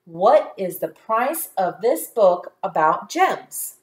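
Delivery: smooth, connected read-along; words joined without gaps; nice and smooth. Shown as a demonstration. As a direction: read it as one flowing sentence. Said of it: "nice and smoothly".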